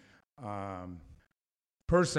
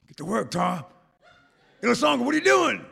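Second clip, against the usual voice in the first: high, fast shouted order; mock skipper yell; skipper calling; 12 semitones higher, 6 dB louder, faster than usual. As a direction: bark the crew back to work. Skipper calls to crew.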